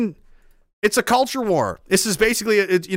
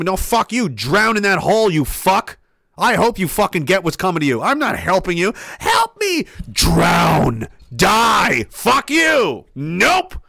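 mock furious tirade; slower than usual. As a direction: yell them down, refusing to help. Acted tirade telling someone off.

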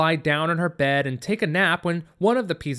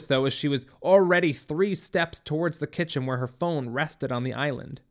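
usual speaking voice

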